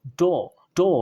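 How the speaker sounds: slow डो with a long o; डो drawn out slowly, American style; American pronunciation. Shown as a demonstration. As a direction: stretch out डो the American way. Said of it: "American में".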